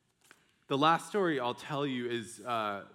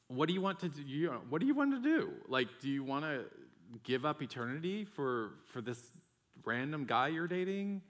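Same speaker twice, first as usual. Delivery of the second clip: harsh; 5 semitones higher than usual. Retold or imitated. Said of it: "I was really harsh with him".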